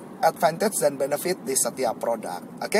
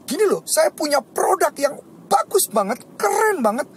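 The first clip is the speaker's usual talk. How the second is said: high, loud, gushing sales pitch; same excitement as food; 11 semitones higher, 3 dB louder than usual. Shown as a demonstration. Teacher pitching a product with food-level excitement, high and loud. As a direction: sell it like your favourite food. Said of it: "kalau dipindahkan ke produk gimana".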